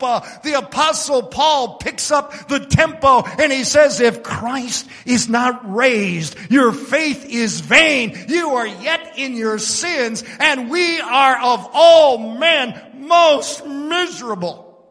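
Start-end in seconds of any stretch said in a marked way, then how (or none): 4.0-14.8 slow scripture quote. Acted. Preacher quotes Paul picking up tempo.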